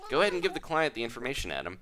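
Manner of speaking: lightly voiced game agent. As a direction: lightly play a welcoming property agent.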